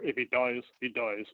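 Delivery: badly attempted Russian accent; a weak stab at a Russian movie-villain accent; Drago's terrible accent. Podcast guest quoting a Rocky Four line, terrible Russian accent. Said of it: "that was a terrible accent".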